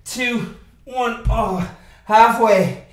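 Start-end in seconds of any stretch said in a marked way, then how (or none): 1.3-2.8 loud and strained, cheering on; loud coaching call. Real, not acted. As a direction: call it out over the effort. Coach shouting encouragement mid-workout.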